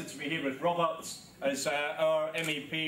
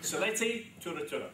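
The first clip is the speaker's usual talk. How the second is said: Sylheti with Cockney accent; 3 semitones higher than usual. Real, not acted. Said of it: "with my classic Cockney accent".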